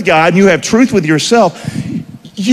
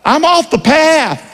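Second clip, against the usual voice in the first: honest self-talk; 7 semitones higher, slower than usual. Shown as a demonstration. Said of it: "Tell yourself".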